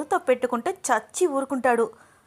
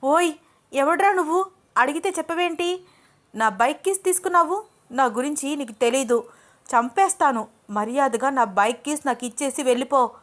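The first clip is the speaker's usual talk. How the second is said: higher, louder desperate bluster; frightened threat; 5 semitones higher, 4 dB louder than usual. A narrator's reading. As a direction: shout threats to hide her fear. Woman threatens her stalker.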